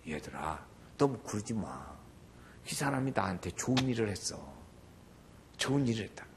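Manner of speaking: soft, low, calming reproof; gentle Jesus. Retold or imitated. Jesus calming disciples about the woman, gentle low voice. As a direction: lightly voice a calm, gentle teacher. 그때 예수님이.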